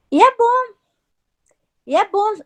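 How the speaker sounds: retold spirit voice jeering at her, lightly voiced; sarcastic mocking voice. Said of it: "a voz pegou e falou assim pra mim".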